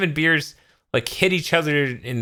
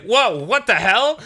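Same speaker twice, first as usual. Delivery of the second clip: mock surprise; 8 semitones higher, 4 dB louder, slower than usual. Beers hit in face.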